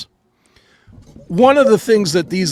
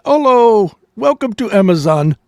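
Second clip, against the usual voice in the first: imitating Indian accent; 4 dB louder than usual. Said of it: "guy with the hard Indian accent".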